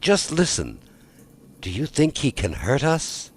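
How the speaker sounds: put-on timid girl. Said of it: "more timid than the rest".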